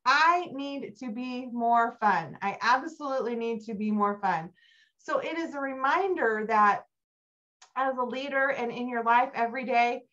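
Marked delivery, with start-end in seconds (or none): 0.1-4.5 firm resolve. Retold or imitated. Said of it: "I'm like".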